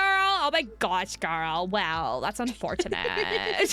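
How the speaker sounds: lightly put-on Valley Girl accent. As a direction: do a drawn-out mock Valley Girl. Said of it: "did the Valley Girl".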